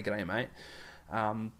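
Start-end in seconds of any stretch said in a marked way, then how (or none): 0.0-0.5 plain Aussie G'day mate. Shown as a demonstration. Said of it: "We say".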